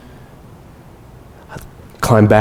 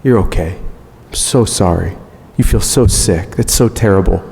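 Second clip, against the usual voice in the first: soothing wife, lightly voiced; 2 semitones lower than usual. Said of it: "and she's saying".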